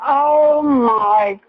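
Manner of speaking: high, tearful wail of shock; real anguish. Real, not acted. Wife on 911 after a gunshot, anguished. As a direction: cry out in disbelief and dread. Wife realises husband shot himself.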